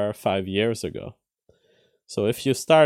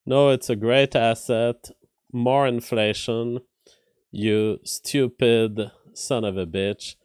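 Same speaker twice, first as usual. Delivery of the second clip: sarcastic. Retold or imitated. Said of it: "Biden sarcastically saying more inflation".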